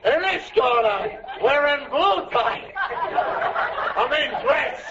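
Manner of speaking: shouted boxing-ring introduction; mock prizefight announcer; ringside announcer. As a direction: call her into the ring.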